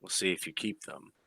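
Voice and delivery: high teasing villain voice; coy villain. Acted. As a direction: flirt back with a high, playful purr. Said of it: "She giggles when you say that. Says".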